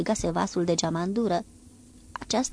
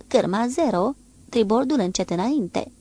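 ordin ferm; 3 semitones higher, 4 dB louder than usual. Acted. Ordin de cârmă.

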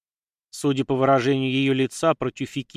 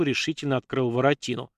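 ordinary delivery, nothing marked

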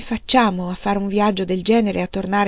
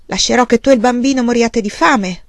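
louder, hard and bitter, rising in protest; bitter anger; 4 dB louder than usual. Acted. Husband rages at his wife over begging, louder and bitter. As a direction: lash out at her in despair.

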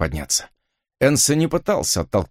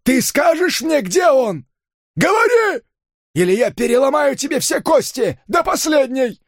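accusing shout. Acted. Gangster accusing the hero of kidnapping, furious high shout. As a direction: hurl the accusation at him. Gangster threatening beaten man.

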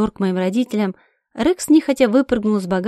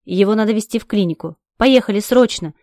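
panicked shout. Acted. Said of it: "кричу я в панике".

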